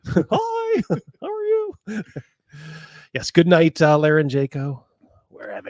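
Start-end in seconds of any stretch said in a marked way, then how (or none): 0.1-2.0 high, giggling hello through laughter; can't stop laughing while greeting. Real, not acted. Laughing greeting to buddy Rogan.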